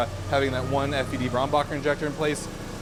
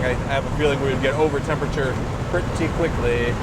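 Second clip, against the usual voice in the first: Moira Rose voice; 3 dB louder than usual. Retold or imitated. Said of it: "Sounded like Moira Rose right there".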